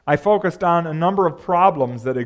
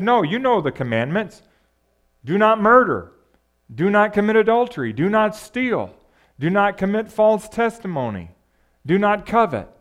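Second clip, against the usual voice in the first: high, forceful recital of commands; raised-voice list of commandments; emphatic commanding quote; 6 semitones higher, 3 dB louder than usual. Acted. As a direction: lay down each rule firmly, pitched well up. Preacher acts Jesus listing commandments.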